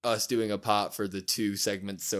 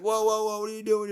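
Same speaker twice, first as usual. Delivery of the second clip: high, startled retold cry of protest; startled whoa; 11 semitones higher, 4 dB louder than usual. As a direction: jump up in pitch, caught off guard. Dom startled, pushed onto couch.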